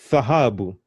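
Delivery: Thahabu with th at the front and a strong HA; special th sound. Shown as a demonstration. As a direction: start Thahabu on th, stress the middle syllable. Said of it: "those are special sounds".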